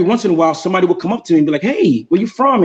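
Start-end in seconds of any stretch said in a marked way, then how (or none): 1.6-2.6 higher, drawn-out friendly hail; retold friendly approach. Stranger starting a conversation with the traveler, imitated friendly hail. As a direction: imitate a stranger striking up a chat, slowly.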